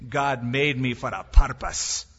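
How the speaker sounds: put-on Abraham in a light Scottish accent; a playful hint of a Scottish accent on God made me for a purpose. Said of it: "he wouldn't use a Scottish accent".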